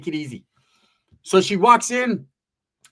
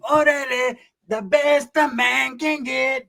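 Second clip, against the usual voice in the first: cholo voice; 7 semitones higher, much slower than usual. Retold or imitated. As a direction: stretch it out like a smooth cholo. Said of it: "He's like".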